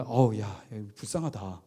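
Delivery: low, soft voice of onlookers feeling sorry; pitying murmur. Retold or imitated. Crowd seeing the rookie's face, murmuring in pity. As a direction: let it sink into a hushed, pitying aside. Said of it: "이런 분위기가".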